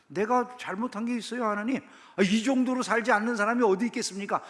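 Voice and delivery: high, indignant self-justifying protest; defiant believer. Retold or imitated. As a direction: talk back to God like you did nothing wrong. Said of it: "뭐 이런 거죠".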